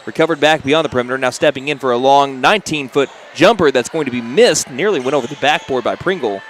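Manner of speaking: brisk courtside game call; play-by-play. Real, not acted. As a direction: call the action as it happens. Live basketball play-by-play.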